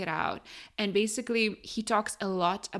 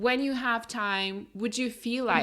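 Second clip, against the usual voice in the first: higher, drawn-out, tentative polite request; roundabout request; 4 semitones higher, slower than usual. Shown as a demonstration. Friend mocking how not to ask your man, roundabout and tentative. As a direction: ask indirectly, pitched up and unhurried. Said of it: "Don't say, like".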